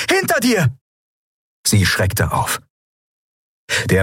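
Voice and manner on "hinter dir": high warning call. A narrator's reading. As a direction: call her name to warn her. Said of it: "rief Lien".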